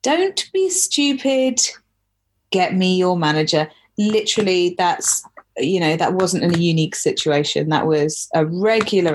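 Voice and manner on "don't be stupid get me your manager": entitled customer. Retold or imitated. Repeated quote, higher and slower.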